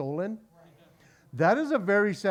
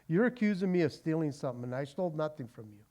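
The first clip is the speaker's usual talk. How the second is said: mild upset; 3 semitones lower, 5 dB quieter, faster than usual. Retold or imitated. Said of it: "Jacob is now getting upset".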